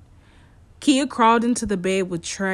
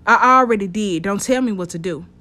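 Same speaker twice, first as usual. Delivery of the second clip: irritated retort; 5 dB louder than usual. Acted. Kia snapping at detective.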